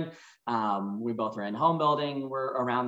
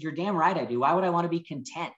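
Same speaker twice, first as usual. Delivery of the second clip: retold angry reply; 4 semitones higher, 4 dB louder than usual. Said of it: "I got really angry with that".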